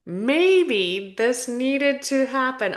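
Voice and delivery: choked-up words; choking. Real, not acted. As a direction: voice catching, slowed. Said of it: "Oh my God, I'm choking".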